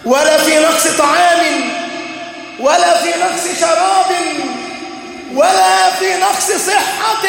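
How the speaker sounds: rising pulpit cadence; impassioned preaching. Real, not acted.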